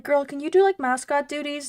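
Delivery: coaxing her mascot. Pretend. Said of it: "I'm like".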